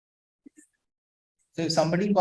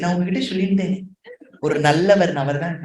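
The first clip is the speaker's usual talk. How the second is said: sarcastic; much faster than usual. Retold or imitated. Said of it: "that நல்லவர் means he isn't".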